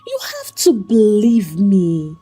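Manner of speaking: high, slow, tearful pleading; a wife begging through tears; sobbing plea. Acted. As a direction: plead through rising sobs. Crying plea to husband.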